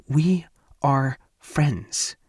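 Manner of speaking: every word slow and bitten off; through clenched teeth. Acted. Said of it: "enunciates every word through her clenched teeth".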